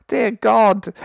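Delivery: laughing dear God, high and loud. Real, not acted. Vlogger cracking up at the show's excuses, laughing. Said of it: "I'm trying not to cry with laughter".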